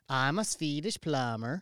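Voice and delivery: put-on slow sing-song Swedish accent. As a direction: lilt it like a Swedish stereotype. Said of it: "Do it again".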